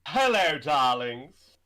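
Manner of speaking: flamboyant diva voice, grand and showy; campy drag queen. Acted. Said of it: "So me doing Metaton".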